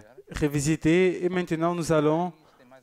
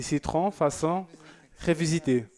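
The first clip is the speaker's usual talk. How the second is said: French accent. Shown as a demonstration. Host showing off his French accent reading a viewer's dessert, in a French accent. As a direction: lean into a French accent on "citron, façon révisitée". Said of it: "avec mon accent français".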